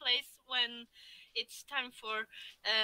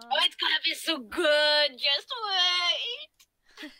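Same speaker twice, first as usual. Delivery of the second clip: excited; 5 dB louder than usual. Real, not acted. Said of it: "excited teasing".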